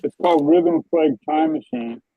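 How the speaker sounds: muffled sound, like a hand over the mouth; words muffled and dull. Real, not acted. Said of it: "your sound is kind of muffled sometimes".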